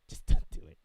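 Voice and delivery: laughing. Real, not acted. Repeats warning through a laugh.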